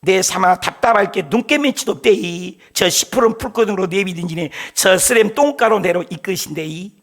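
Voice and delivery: playful Gyeongsang-dialect Psalm for the congregation. Pretend. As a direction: read it like a Gyeongsang grandpa, in Gyeongsang dialect. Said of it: "경상도 사투리로 그랬대".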